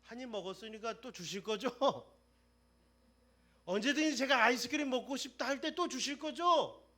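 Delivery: put-on high, loud eager child voice; trusting child. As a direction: ask like a confident little boy. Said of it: "그런 믿음".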